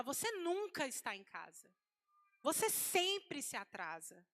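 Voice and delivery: drawn-out, falling accusation with stressed nunca and sempre; acting out a wife's reproach; mock angry accusation. Wife scolds husband who came home late, mildly angry. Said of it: "Ela tá ali com raiva".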